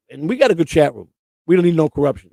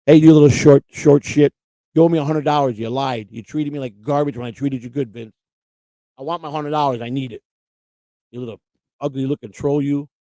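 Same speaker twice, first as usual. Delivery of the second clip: angry call-out; 4 dB louder than usual. Acted. Calling out Vince angrily.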